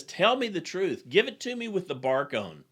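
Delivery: retelling an exasperated general's demand; frustrated demand. Retold or imitated. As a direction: press him hard, a touch angry. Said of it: "gets a little frustrated with him and kinda slams".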